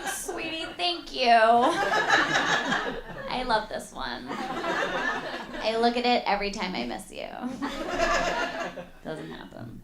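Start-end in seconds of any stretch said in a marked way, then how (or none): 0.1-7.3 lightly acted sweet gratitude; mock doting girlfriend. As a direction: coo a drawn-out, hammy thank-you. Mock gushing over a photo.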